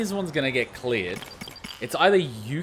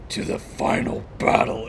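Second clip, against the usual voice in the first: unvoiced hushed echo of the line; hushed mock-dramatic whisper; whispered quote. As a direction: breathe it out in awe. Quoting the game again, breathy.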